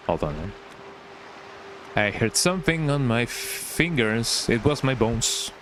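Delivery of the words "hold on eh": slow, hushed whisper. Real, not acted. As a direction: whisper it while listening closely. Hearing something, listening closely.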